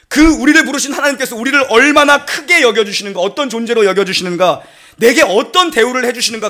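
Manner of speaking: fervent pulpit sermon; full preaching. Acted. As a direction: preach it to the whole church.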